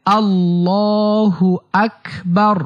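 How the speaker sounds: slow, drawn-out Arabic recitation; measured recitation for learners; takbir demonstration. Shown as a demonstration. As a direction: teach the takbir with long, held vowels. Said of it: "সেই তাকবীরটি হচ্ছে".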